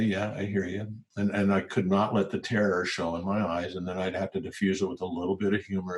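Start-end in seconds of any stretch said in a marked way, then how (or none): 0.0-0.9 calm. Retold or imitated. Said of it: "calmly say".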